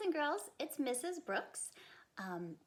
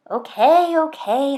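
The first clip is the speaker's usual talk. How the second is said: louder, higher mock give-up; giving-in sigh; 4 semitones higher, 22 dB louder than usual. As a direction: give in like a tired mother. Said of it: "her mother sighed".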